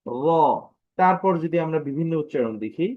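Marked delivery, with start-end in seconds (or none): 0.0-0.2 rounded, heavy "র"; thick R. Shown as a demonstration. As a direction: say "র" slightly thickened. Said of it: "একটু মোটা হবে".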